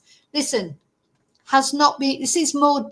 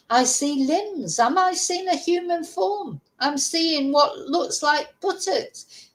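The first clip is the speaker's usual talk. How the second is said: lightly voiced psychic medium, drawn-out phrases; mock a psychic slowly describing a vision; 3 semitones higher than usual. Vlogger ridiculing the sonar expert as a psychic, mock medium voice. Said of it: "the bloody psychic medium".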